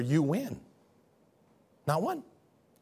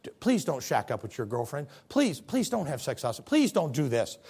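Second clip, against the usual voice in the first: softly begging, a touch lower; tearful pleading; 4 semitones lower, 4 dB quieter than usual. Acted. Loving pastor begging a church member to stop sinning, soft mild tearful plea. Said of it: "comes to you with tears in his eyes and says".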